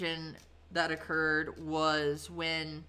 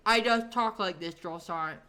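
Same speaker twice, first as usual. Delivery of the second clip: odd trainee voice; 2 semitones higher than usual. Retold or imitated. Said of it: "he actually talked like that".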